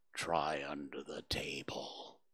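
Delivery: loud, hushed stage whisper meant to carry. With his front leg to his mouth, he speaks up, loud whisper. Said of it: "said in a loud whisper".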